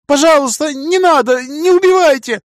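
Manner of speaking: high, loud, panicked begging; terrified pleading. A narrator's reading. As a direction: plead desperately for mercy. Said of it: "повторил он".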